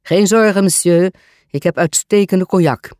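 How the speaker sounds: said laughing. A narrator's reading. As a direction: reassure the guest with acted amusement. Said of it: "zei hij lachend". (lachend gezegd, licht gespeeld)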